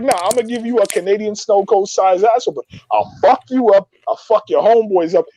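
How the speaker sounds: mild mock yell; retold threat. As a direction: act out a cocky face-to-face threat. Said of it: "I start yelling".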